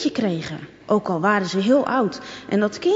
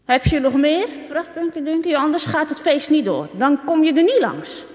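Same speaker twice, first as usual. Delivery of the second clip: higher, louder demanding bully; Punky Dunky threatening Marieke; 7 semitones higher, 4 dB louder than usual. A narrator's reading. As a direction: lean on her for more money.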